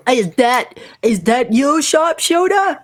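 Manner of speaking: put-on high, wondering child's voice; a small kid, delighted and unsure; child recognizing the sharpshooter, pitched high; little girl voice.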